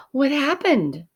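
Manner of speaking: high startled question; surprised. A narrator's reading. Alexander surprised to find Willie in the box. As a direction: ask it in sudden surprise.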